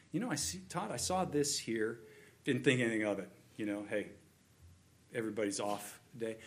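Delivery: soft, casual word to a friend; gentle loving confrontation. Acted. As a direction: bring it up gently and quietly. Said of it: "someone has lovingly pointed out to me".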